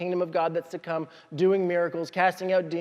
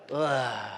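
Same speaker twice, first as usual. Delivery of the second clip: low, soft groan of disgust; mock-disgusted sinking groan; disgusted ugh; 8 semitones lower, 6 dB quieter than usual. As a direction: let out a long low "ugh". Repeats the reaction after retry.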